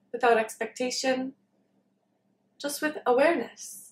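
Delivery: calm meditation guidance with long pauses; unhurried, leaving long silences between phrases; guided meditation. Real, not acted. Leads a meditation.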